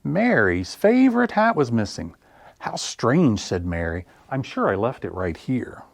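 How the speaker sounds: lively picture-book read-aloud with big pauses; expressive children's story reading. Acted. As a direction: read it like story time for little ones.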